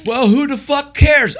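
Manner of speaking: put-on high, loud, drawn-out kid voice; slow, high-pitched childish outburst; imitated young grandson. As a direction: play a little boy cursing boldly. Voicing seven-year-old grandson swearing.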